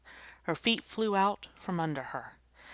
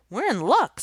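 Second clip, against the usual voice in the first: much higher, much louder glad cry; excited cry; 9 semitones higher, 11 dB louder than usual. Acted. Joey sees the principal coming, excited. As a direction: burst out with relief.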